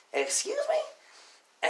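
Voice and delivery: very high, drawn-out incredulous question; retold indignant challenge. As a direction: stretch it out high in mock disbelief. Retold indignant reply to insult.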